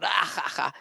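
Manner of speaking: mock burst of laughter; imitated laughter burst. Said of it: "someone besides us br-, bursts out".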